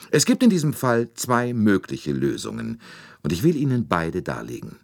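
höher und getragen, förmliche Rede; feierliche Ansprache. A narrator's reading. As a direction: sich räuspern und feierlich vortragen. Poirot addresses all passengers. (Poirot spricht vor allen Passagieren, feierlich und förmlich)

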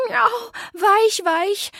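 long, high, drawn-out meow of a name; meowing cat greeting. A narrator's reading. Zelda the cat meows a greeting to Weich-Weich, high and drawn out. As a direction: stretch it slow and high like a cat's cry. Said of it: "miaute Zelda".

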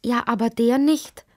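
ruhiges Kind mit höherer Stimme. A narrator's reading. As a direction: widersprich gelassen, mit heller Kinderstimme. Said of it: "gab Lotti ruhig zurück". (gelassen erwidert)

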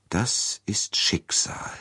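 slow, hushed, fateful whisper. Acted. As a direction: breathe it like a prophecy. Princess recognizes Poirot. (langsames Flüstern)

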